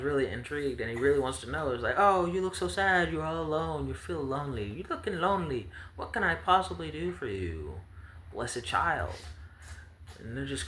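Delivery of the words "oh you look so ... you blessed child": high pitying voice. Acted. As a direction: coo at a lonely child. GM voices promised child to sad child.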